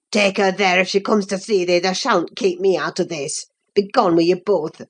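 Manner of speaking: put-on low, furious young man voice; angry Earnshaw. A narrator's reading. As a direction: order them out in a rage.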